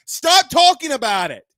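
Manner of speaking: angry shout. Real, not acted. Angry rant at critics.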